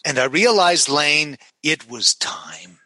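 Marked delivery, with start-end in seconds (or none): 1.6-2.8 somber dad. Retold or imitated. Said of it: "a shadow fell across his face".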